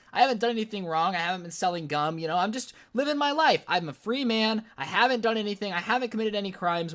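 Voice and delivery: acted-out indignant self-defense; indignant protest. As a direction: plead your innocence, a bit heated. Protesting innocence on way to dean.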